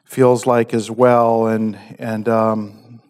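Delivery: hushed, earnest prayer to God. Real, not acted. Pastor prays before communion.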